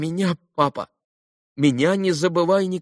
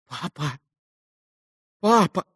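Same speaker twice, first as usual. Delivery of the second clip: broken calling; 7 semitones higher than usual. A narrator's reading. Dying boy calls father.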